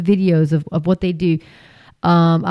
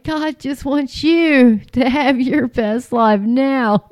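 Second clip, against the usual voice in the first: slow, syrupy televangelist impression; mocking the preachers in million dollar homes with a slow syrupy promise; mock prosperity preacher; 2 semitones higher, slower than usual. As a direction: drawl it like a smug TV preacher. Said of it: "they're just like".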